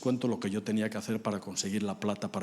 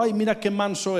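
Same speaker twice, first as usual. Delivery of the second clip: cooing at a dog; 9 semitones higher, 6 dB louder than usual. Retold or imitated. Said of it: "dices que es un perro".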